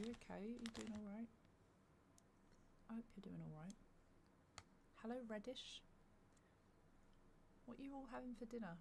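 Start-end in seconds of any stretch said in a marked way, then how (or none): 0.0-5.8 whispering. Real, not acted. Soft greeting to viewer.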